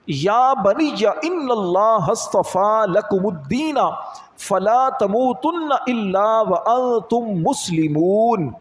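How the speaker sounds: slow, drawn-out Arabic verse recitation; Quran recitation. Acted. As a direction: recite the verse slowly, holding the long vowels. (ٹھہر ٹھہر کر قرآنی آیت کی تلاوت)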